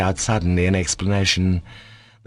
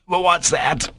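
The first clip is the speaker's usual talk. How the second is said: surprised; 9 semitones higher, slower than usual. A narrator's reading. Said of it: "staring with surprise".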